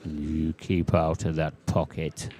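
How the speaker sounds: slow mock-stern Welsh accent. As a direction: warn the ball off in a Welsh accent. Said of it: "Nearly had a Welsh accent then".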